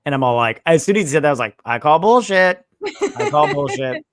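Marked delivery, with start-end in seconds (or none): 1.7-4.0 retold loud protest; mock outburst. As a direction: call it out in exaggerated disbelief. Retells own outburst at the show.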